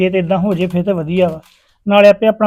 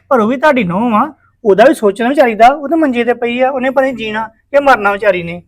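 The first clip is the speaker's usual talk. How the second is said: loud pleading; 4 semitones higher, 5 dB louder than usual. Acted. Pleading for sick daughter-in-law.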